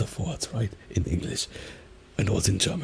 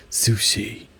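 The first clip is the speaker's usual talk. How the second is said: "sushi" in an English accent, ending toward "shay"; English pronunciation. Shown as a demonstration. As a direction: glide the last vowel of "sushi" like an English speaker. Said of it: "Or in English".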